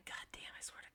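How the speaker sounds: whispered, under-the-breath cursing; muttered swearing. Real, not acted. To herself over the eyebrow makeup, real whispered cursing. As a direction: drop to a whisper, swearing to yourself.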